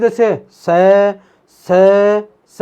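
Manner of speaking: drawn-out hissing s, s, s; hissing s sound. Shown as a demonstration. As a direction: show the friction of स slowly. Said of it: "जैसे हम बोलते हैं".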